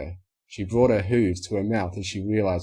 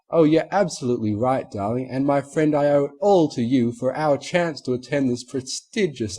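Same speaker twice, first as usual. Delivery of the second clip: higher, posh lady's fawning; Rarity flattering the stallion, higher and grand; refined mare; 6 semitones higher, 5 dB louder than usual. A narrator's reading. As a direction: lay the charm on thick, darling.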